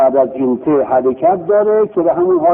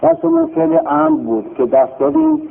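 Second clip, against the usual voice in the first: much higher, projected restart after a sound check; raised-pitch repeat of بحثمون فعل امر بود; repeated for the mic; 13 semitones higher than usual. Real, not acted. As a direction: say it again so the back row hears, بحثمون lifted high. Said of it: "صدا میاد؟".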